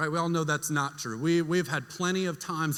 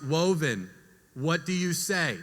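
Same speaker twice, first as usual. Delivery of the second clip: drawn-out, patient parental question; slow prompting; slower than usual. Retold or imitated. Mother prompting her fussing toddler for thanks, slowly.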